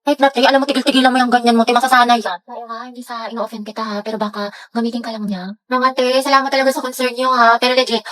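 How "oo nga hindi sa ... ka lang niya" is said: timid classmate almost inaudible; shy, hushed advice; very soft voice. Acted. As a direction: speak barely above a murmur. Soft-spoken Clarice's lines.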